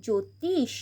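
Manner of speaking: জ্যোতিষ said as jotish, no ya sound; silent ja-phala. Shown as a demonstration. Teacher giving pupils জ্যোতিষ: plain jo. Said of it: "জফলার উচ্চারণ হবে না".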